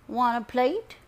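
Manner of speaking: high, loud grandma question; grandma piping up. A narrator's reading. Grandma offers her grandson a plate, piping up. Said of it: "my Grandma Trudy piped up next".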